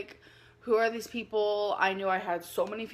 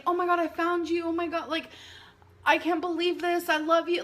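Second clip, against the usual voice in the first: mock gushing stranger, higher; gushing message; 6 semitones higher than usual. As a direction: read it out like an overexcited fan.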